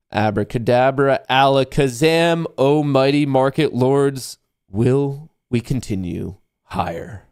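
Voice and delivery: slow hammed-up magic incantation; mock wizard summoning spell, slow; kids party magician. Mock incantation over tarot deck.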